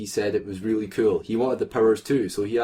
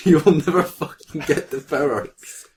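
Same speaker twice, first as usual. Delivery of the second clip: mock villain taunt; 5 semitones higher, 5 dB louder than usual. Voicing villain Mystique.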